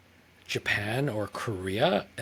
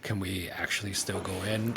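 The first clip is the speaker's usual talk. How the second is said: subdued, put-on apologetic plea; a hint of acted sadness; mock sad apology; 4 semitones lower, 4 dB quieter than usual. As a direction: play the sorry tourist, humble and hushed. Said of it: "trying to act really sad".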